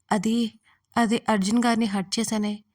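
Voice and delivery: tearful, stammering confession; crying. A narrator's reading. Raksha confessing to Suma she hurt Arjun, crying. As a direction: get it out through tears. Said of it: "ఏడుస్తూ చెప్పింది".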